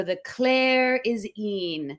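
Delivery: "The Claire is een" with the first sounds swapped; spoonerism slip. Retold or imitated. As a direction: say "Claire" and "een" instead of "air" and "clean". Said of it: "And I just go".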